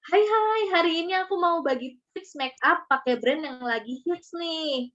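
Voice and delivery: high bubbly greeting on hai hai; generic cheery opener. Shown as a demonstration. Contrasting bland opener, cheery vlogger greeting. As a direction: typical chirpy vlogger intro. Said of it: "Itu pasti akan berbeda".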